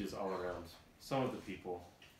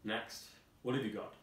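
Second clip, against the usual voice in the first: lightly voiced head guard; 5 dB louder than usual. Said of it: "Head guard".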